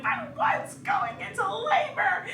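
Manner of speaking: hammed-up high cry with a laugh; dramatic husband. Husband announcing labor at the ER, hammed-up dramatic cry. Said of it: "but we're so dramatic".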